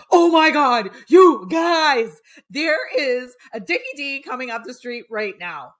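high, loud excited shout to friends. Retold or imitated. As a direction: call out to the house, thrilled. Excitedly calling roommates.

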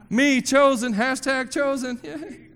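giggly hashtag chosen; mock selfie cheer. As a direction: cheer yourself like posting a selfie. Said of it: "Do a selfie".

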